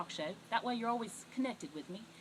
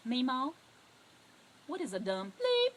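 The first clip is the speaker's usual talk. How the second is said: put-on little child; 6 dB louder than usual. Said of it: "this little voice say".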